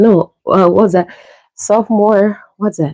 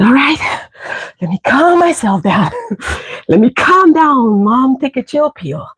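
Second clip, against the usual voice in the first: calming herself; 4 semitones higher than usual. Retold or imitated.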